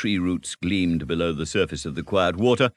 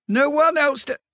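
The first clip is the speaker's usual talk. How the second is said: a much higher, louder Rat echoing "No one else to" in disbelief before breaking off; incredulous echo; 4 dB louder than usual. Acted. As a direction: repeat "No one else to" as if it's absurd.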